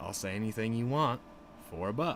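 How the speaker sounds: ordinary talk, nothing marked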